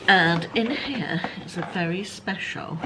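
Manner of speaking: hushed whisper building suspense. Real, not acted. Vlogger reveals the box contents in a whisper. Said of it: "showing a special thing".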